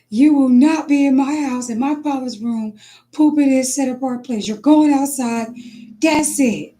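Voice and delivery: high, firm scolding of the dog; retold telling-off of the dog; mock scolding. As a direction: lay down the law, hammed-up and high. Scolding the dog, acted quote.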